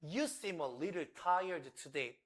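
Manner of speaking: slow, gentle English demo sentence; slow model line. Shown as a demonstration. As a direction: say it slowly and kindly, like an observation. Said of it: "당신이 뭐라고 말할 수 있냐면요". (천천히 부드럽게 관찰하듯)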